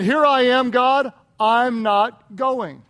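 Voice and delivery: loud, slow stubborn refusal; mock Jonah. Preacher repeating Jonah's answer to God, slow stubborn refusal. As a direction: say it like you won't budge.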